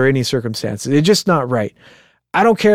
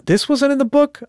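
higher-pitched incredulous question; retold disbelief; 11 semitones higher than usual. Podcaster recalling reading that the scene was missing, retold disbelief. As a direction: act out a surprised double take, pitch jumping up. Retelling own surprise at reading.

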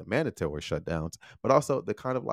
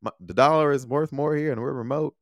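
mocking carefree expats; 8 semitones higher, 4 dB louder than usual. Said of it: "they were like".

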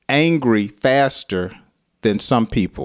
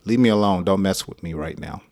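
irritated brush-off; 3 semitones lower, faster than usual. Shown as a demonstration. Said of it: "They get very hot and they just".

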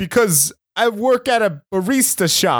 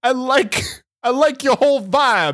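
leering catcall; 5 semitones higher than usual. Pretend. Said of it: "I'm catcalling".

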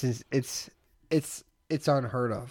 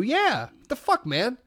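mock angry; 10 semitones higher, slower than usual. Prank, yelling at stranger.

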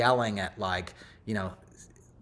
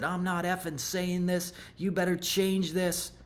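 Rudy Giuliani cursing out; 8 semitones higher than usual. Retold or imitated. Giuliani cursing out the event staffer, imitated anger. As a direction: imitate an irate mayor laying down demands. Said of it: "cursed me out".

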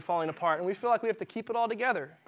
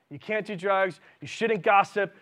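mock angry scold; 2 semitones higher, 6 dB louder, slower than usual. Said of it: "they're just angry".

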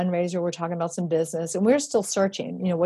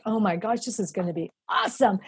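excited; 3 semitones higher than usual. Retold or imitated. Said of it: "I was so excited".

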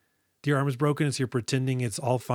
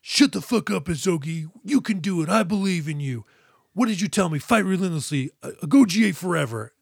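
Naoya cheering her on; 5 semitones higher than usual. Retold or imitated. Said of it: "Naoya in this moment is like".

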